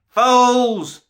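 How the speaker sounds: high, loud scream of rage; furious scream. A narrator's reading. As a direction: spit the word at them. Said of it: "the Duke screamed again".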